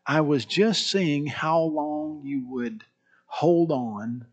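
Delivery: soft, slow, gentle reveal; tender father. Retold or imitated. Dad reveals real pearls to his daughter, soft and tender. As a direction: let it out slowly and softly, with pauses.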